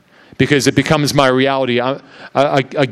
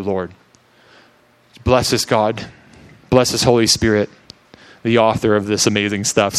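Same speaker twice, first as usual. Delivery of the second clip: earnest prayer. Acted. Opens with prayer over reading.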